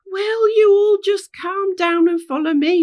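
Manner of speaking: high, loud order over chaos; commanding shout. Acted. Rainbow ordering the screaming gang to settle, loud high shout. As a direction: raise the voice to restore order.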